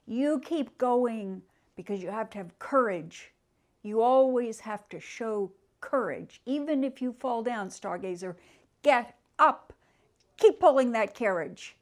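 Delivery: loud, stirring call to courage; rally him to his feet; rousing command. Acted. Nelson the ghost horse loudly urging Stargazer to get up.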